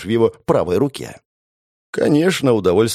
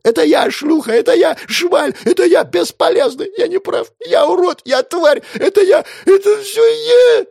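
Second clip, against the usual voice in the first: very high, loud crying shrieks; broken boss screaming confessions; hysterical wailing; 6 dB louder than usual. Acted. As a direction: shriek each confession in panic. Boss hysterically self-debasing.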